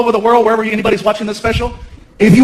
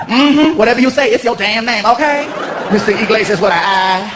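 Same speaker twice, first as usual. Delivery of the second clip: dismissive clerk. Retold or imitated. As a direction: wave him off with sass. Clerk sassy.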